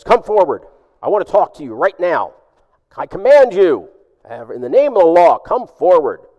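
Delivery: put-on loud, stern orders from a proud young cop; commanding officer. Proud young officer commanding the man in rags, loud and stern. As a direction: bark it with full authority.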